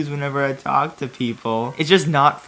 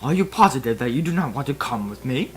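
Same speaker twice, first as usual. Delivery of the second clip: held-back anger; faster than usual. Acted. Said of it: "trying not to let my anger rush out".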